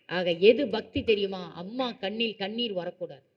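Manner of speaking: slow, measured moral lesson voice; formal preaching. Acted. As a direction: deliver it like a sermon to children. (மெதுவான அறிவுரைக் குரல்)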